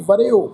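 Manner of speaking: ਵਰਿਓ said as ਵ-ਰਿ-ਓ, the ਰ carrying a short ਿ vowel; careful pronunciation. Shown as a demonstration. Teacher demonstrating ਵਰਿਓ for the congregation. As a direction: pronounce ਵਰਿਓ clearly, syllable by syllable. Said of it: "ਇਸ ਸ਼ਬਦ ਦਾ ਪਾਠ ਉਚਾਰਨ ਕਰਾਂਗੇ".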